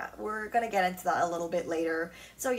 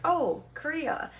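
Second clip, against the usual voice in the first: mock one-word answer; 9 semitones higher, 4 dB louder, slower than usual. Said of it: "It's not like".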